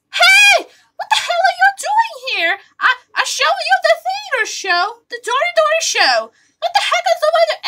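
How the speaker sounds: laughing shout. Acted. Laughing outburst.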